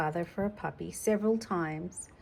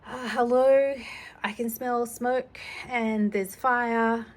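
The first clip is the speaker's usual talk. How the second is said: demo emergency call; 3 semitones higher, 3 dB louder than usual. Shown as a demonstration. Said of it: "and you say".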